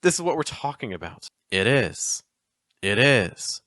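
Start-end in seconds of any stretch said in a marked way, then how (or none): 1.5-3.6 weak then strong, it IS; iambic stress. Shown as a demonstration. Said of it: "Notice that it's a weak first part".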